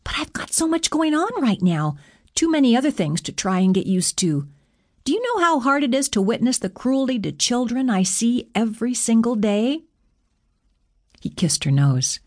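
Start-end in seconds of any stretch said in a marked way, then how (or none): 0.0-9.8 high-pitched, distressed pleading; overwhelmed protest. A narrator's reading. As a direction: plead your case with the pitch pushed up.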